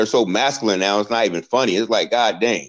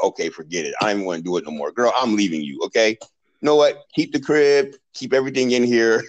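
fed-up man giving up; 3 semitones lower than usual. Retold or imitated. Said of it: "And you're just like".

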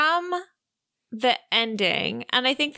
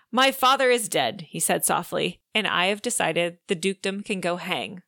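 lightly acted audiobook narration; storybook read with voiced dialogue; reading aloud. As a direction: read the proposal scene with some drama. Reads the proposal scene aloud.

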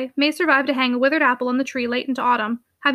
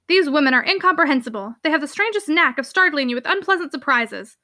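exasperated uncle. Acted. Uncle grumbles about women.

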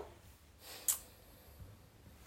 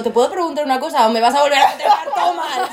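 pregunta retada entre risas; 3 semitones higher, 6 dB louder than usual. Retold or imitated. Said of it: "le dije yo".

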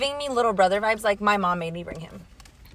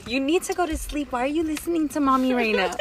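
put-on higher, sing-song mommy scolding a child; playful mom voice; 5 semitones higher than usual. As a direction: talk like a mom sending a kid to bed. Plays mommy to a singer.

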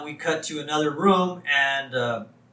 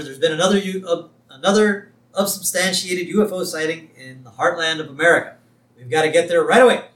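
retold urgency, somewhat louder; mildly urgent; 3 semitones higher, 5 dB louder than usual. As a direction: lightly act out an eager agent's report. Mulder urgently reports UFO sighting.

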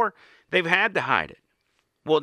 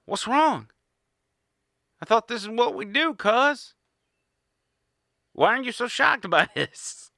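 put-on higher, puzzled child voice; kid's innocent question; 5 semitones higher than usual. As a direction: play the clueless kid who doesn't get the fuss. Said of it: "your kid looks at you being horrified and it says".

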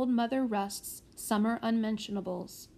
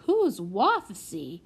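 put-on small child voice; 2 semitones lower, 3 dB louder, much slower than usual. The small prodigy asks.

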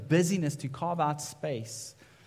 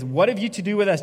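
a sudden loud, higher cry of the demon; 6 semitones higher, 7 dB louder, faster than usual. Acted. Preacher reading the demon's cry to Jesus, loud and raised. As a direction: let the demon lash out at Jesus. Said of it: "this demon says".

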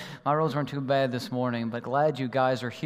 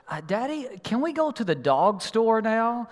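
put-on child voice; 6 semitones higher than usual. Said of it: "he goes".

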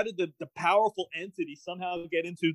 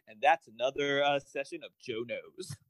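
mock sign-off. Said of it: "him turning to the camera going".

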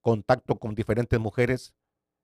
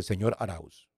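softer, lower, grave doctor; deathly grave voice; 4 semitones lower, 7 dB quieter, slower than usual. Retold or imitated. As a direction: say the name as if bringing bad news. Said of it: "con una voz completamente ya de muerte". (voz grave de muerte)

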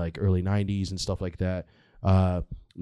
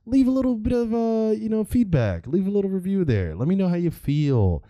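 barking gym coach; 10 semitones higher than usual. Pretend. Mock caring podcaster pitch.

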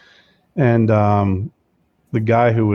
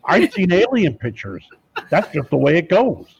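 higher, gruff wrestler-governor voice, emphatic; hammed-up Jesse the Body Ventura growl; phone prank as the former governor, boastful; Jesse Ventura impression; 5 semitones higher than usual. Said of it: "I'm like".

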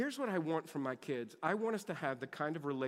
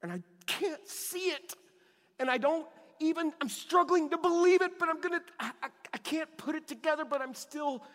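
much higher, straining voice holding on; cling to belief through the struggle, pitched up; sincere strained prayer, higher; struggling faith; 11 semitones higher, 7 dB louder than usual. Shown as a demonstration. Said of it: "Here's where faith comes in".

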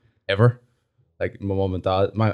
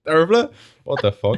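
retold disbelief; 10 semitones higher, 4 dB louder than usual. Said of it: "and I was like".

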